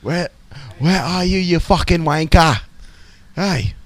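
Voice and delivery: high, hammed-up English caller; mock English accent. Imitating Penthouse being called up, hammed-up English accent. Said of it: "calling up Penthouse going".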